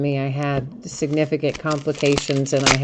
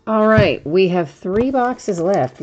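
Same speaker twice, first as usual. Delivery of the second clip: excited; 5 semitones higher, 6 dB louder, slower than usual. Real, not acted. Restarting the box break.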